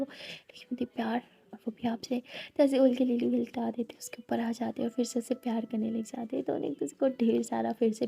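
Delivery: breathy intimate whisper, telling it close; whispered narration. A narrator's reading. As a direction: hush the voice for the love scene. (फुसफुसाकर कहानी सुनाना)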